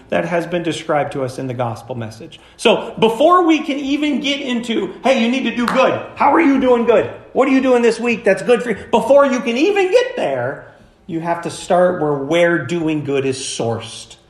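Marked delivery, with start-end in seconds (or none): 5.0-8.8 raised, pressing voice of an exhorter; insistent prodding. Acted. Preacher acting out someone pushing the congregation to do good, insistent. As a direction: prod them with challenging questions.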